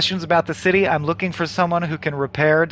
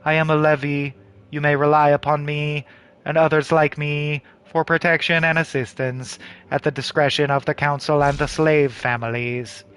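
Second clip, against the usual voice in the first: a hint of a polite, immovable official; lightly acted formal guard; lightly voiced officious soldier; 2 semitones lower than usual.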